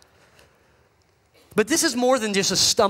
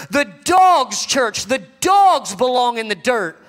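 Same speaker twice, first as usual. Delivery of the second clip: shouting it out, louder; preaching shout; 4 dB louder than usual. Real, not acted. Preacher shouting to the church about the dirt. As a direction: hammer it home to the church.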